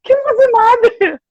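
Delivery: high, slow, drawn-out question; mock-theatrical high call, slowed right down; dramatic wondering. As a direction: stretch it out high like a hammed-up plea. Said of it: "eu pensei".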